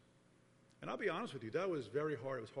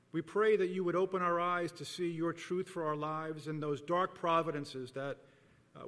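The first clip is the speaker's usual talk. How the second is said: measured, solemn prayer with pauses between petitions; public prayer. Real, not acted. Leads the congregation in prayer.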